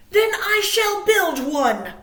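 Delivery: Bear. Acted. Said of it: "said Bear".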